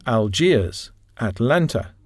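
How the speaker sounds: Algiers and Atlanta, stressed on GIERS and LAN; non-initial word stress. Shown as a demonstration. Teacher modelling city names, Algiers and Atlanta stressed after the first syllable. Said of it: "Non-initial word stress".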